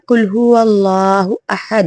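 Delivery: قل هو اللہ احد rushed, q thinned toward k; جلدی میں قل هو اللہ احد; hasty reading. Shown as a demonstration. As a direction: careless quick recitation. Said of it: "جلدی میں پڑھ دیا".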